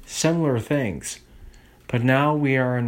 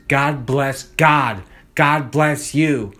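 slow, drawn-out mock benediction; solemn blessing; 4 dB louder, much slower than usual. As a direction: bless them slowly like a preacher.

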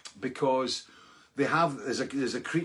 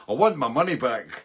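laughing mock rant; 6 dB louder than usual. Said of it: "I was raging at these guys".

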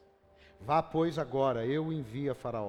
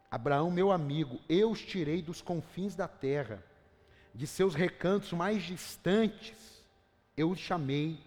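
scripture reading in God's voice; 2 semitones higher than usual. Acted. Reads Isaiah 41 as God speaking.

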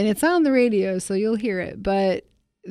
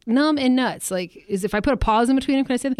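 retold protest; 6 semitones higher than usual. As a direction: replay your disbelief at the rule, pitched up. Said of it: "I was like".

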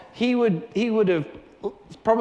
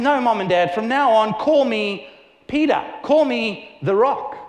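Peter insisting; 2 semitones higher, 4 dB louder than usual. Retold or imitated. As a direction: proudly declare the new name to his parents. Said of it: "he turns around and he says".

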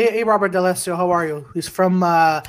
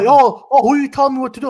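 higher, louder mock outrage at being told; mock indignant customer; 6 semitones higher, 4 dB louder than usual. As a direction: ham up the offended customer. Customer retold, angry about mask.

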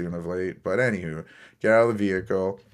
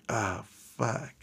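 muted dismay; 3 semitones higher, 6 dB quieter than usual. Retold or imitated. Retold dismay as scooter comes back.

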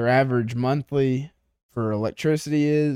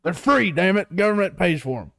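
tag; 5 semitones higher than usual. Acted. Mock hollered pitch continues.

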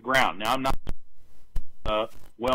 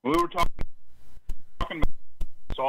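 choppy cut off endings; 9 semitones higher than usual. Real, not acted. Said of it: "you're cutting out".

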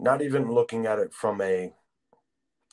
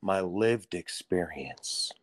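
mocking quote; 3 semitones lower, 7 dB quieter, much slower than usual. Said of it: "people on the left like to say".

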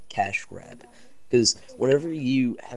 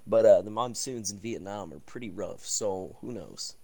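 news reporter voice. Pretend. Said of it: "the news reporter voice".

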